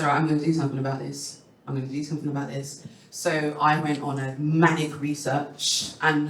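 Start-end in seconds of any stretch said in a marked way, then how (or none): 0.0-2.8 fast, quieter self-pep talk; fast resolve. Retold or imitated. Telling herself she will act, a fast quiet resolve. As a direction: rattle off the resolution quickly. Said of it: "And I said".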